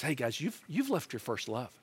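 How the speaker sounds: low, soft appeal to friends; hushed, sober reproof; gentle confrontation. Acted. Voicing Jesus gently confronting the church.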